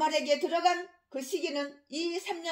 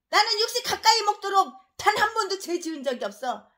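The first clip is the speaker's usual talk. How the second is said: lightly higher, smug mock boast; mock self-righteous pastor; 4 semitones higher than usual. Preacher mimicking a pastor's boast, smug parody. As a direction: parody the claim as if proud of it.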